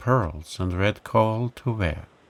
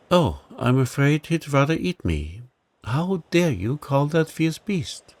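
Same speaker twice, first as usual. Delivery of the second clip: much surprised; 6 semitones higher than usual. Acted. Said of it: "cried Rosie, much surprised".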